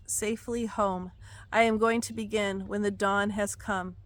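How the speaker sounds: solemn prophetic reading; prophetic proclamation. Acted. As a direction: proclaim it like a prophecy read aloud. Reads God's words aloud.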